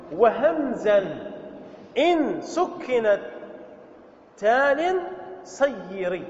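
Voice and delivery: slow, drawn-out recital of verse; verse recitation. Acted. Teacher recites a grammar verse to students, slow and measured. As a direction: recite the line word by word, slowly.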